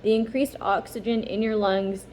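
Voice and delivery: calm, even instruction reading; reading aloud. A narrator's reading.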